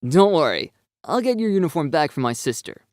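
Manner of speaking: bright comforting promise; calm his nerves with a smile; reassuring. A narrator's reading. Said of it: "giving him a reassuring smile".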